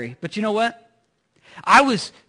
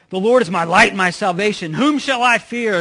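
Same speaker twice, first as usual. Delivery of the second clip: loud, bold declaration of faith; confident proclamation; 5 dB louder than usual. Retold or imitated. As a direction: proclaim it like David on the mountaintop. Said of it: "full of confidence, he's like".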